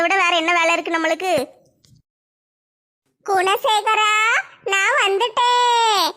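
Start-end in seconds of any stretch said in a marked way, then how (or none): 3.2-6.1 ghostly wail. Acted. Woman acts possessed by Chandramukhi.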